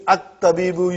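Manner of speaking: "At-tabibu" begun on a clear initial a; hamza pronounced. Shown as a demonstration. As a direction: start "At-tabibu" with the hamza sounded. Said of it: "you pronounce".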